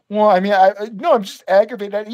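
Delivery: mock backpedalling, stumbling over the excuse; cowed little boy. Guest caving to the clerk, mock sheepish stammer. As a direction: imitate a grown man caving like a small child. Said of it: "like, a four-year-old boy so fast".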